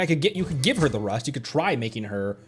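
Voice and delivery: ordinary talk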